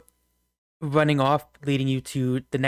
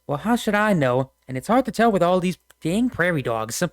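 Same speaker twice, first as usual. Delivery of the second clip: folksy frontiersman; 4 semitones higher than usual. Acted. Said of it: "the middle guy with the hat just goes".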